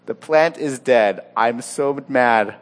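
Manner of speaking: slow, heavy mock anger; so upset. Preacher acts Jonah over the dead plant, mock upset. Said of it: "He is so upset".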